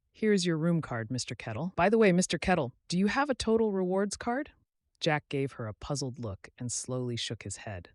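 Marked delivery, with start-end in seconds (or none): 0.1-4.5 a hint of a businesslike receptionist; young clerk, slightly higher; lightly voiced desk clerk. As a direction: read the bill out politely. Sarah hands over room card.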